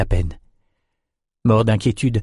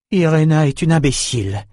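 growled; 6 semitones higher than usual. Acted. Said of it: "grogna Nietzsche".

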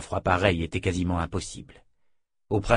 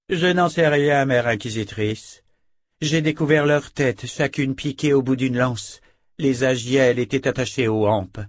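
raised, urgent and shaken; distressed report; 5 semitones higher, 4 dB louder than usual. Acted. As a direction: push it out, barely holding together. Rika reports her comrades' killing.

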